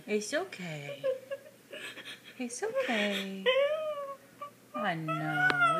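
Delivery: tearful, voice catching on each word; holding back sobs while comforting; crying. Real, not acted. Mother soothing child, crying herself.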